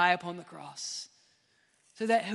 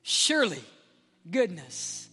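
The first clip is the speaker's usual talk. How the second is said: Jesus on the cross; 3 semitones higher than usual. Retold or imitated. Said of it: "Jesus was hearing these words".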